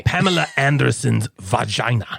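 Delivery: a Russian spy faking American, slowly; Russian spy faking an American accent, slowly. Pretend. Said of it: "Nailed it".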